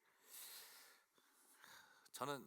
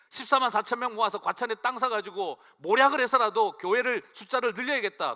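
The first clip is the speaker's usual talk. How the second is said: a raised, louder mock of a zealot's scheming; 8 semitones higher, 13 dB louder than usual. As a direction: sneer it out as the cult's plan, louder and higher. 이단식 생각을 흉내 냄. (더 높고 크게 비꼬는 광신도 흉내)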